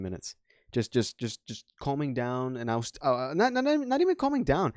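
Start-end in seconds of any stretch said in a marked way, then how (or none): 3.4-4.7 high, strained emphasis; emphatic. Real, not acted. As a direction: push it up high. Emphatic correction, voice jumps up.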